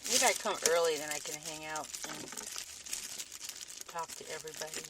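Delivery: talking while eating an apple; chewing between words; mouth full. Real, not acted. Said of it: "Sorry, I'm eating an apple".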